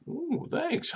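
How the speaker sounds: mock delighted thanks. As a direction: coo it as if thrilled to board early. Speaker thanking the stewardess.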